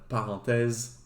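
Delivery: French word "parenthèse" in native French; low, casual French "parenthèse"; French pronunciation. Real, not acted. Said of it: "French is my first language".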